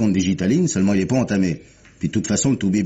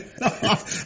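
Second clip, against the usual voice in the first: imitating a shrill hysterical cackle, high and breathless; hysterical laugh; 13 semitones higher, 4 dB quieter than usual. Inspector imitates the widow's hysterical laughing fit, shrill cackle. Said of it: "me pique une crise d'hystérie".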